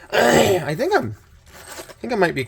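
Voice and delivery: froggy, scratchy throat, coming down sick; hoarse voice. Real, not acted. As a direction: talk through a frog in the throat. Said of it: "sounds like there's a frog in my throat".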